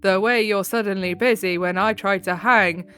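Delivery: flat monotone reading, no inflection. Shown as a demonstration. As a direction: read it as flat as possible. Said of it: "read this as monotone as possible".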